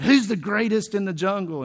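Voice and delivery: lightly voiced boastful lion's demand; roaring lion. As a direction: toss out a mock roar of a question. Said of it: "runs and roars as loud as he can".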